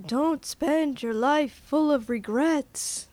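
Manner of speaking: hammed-up Irish accent; friend's Irish-ish accent. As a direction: imitate the friend with a rough Irish lilt. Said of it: "That's exactly how he sounded".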